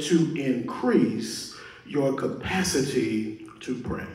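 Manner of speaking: "to increase your capacity" drawn out slowly, word by word; deliberate emphasis. Real, not acted. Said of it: "I say that very intentionally".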